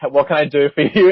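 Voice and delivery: mildly flustered retold apology; totally thrown. Worker explaining the mistake to a caller, mildly thrown. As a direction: backpedal with a slightly embarrassed laugh. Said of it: "I was, like, totally thrown".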